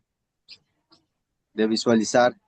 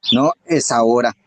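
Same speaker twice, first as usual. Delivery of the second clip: resolute declaration; 5 dB louder than usual. Retold or imitated. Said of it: "Entonces tú agarras y dices".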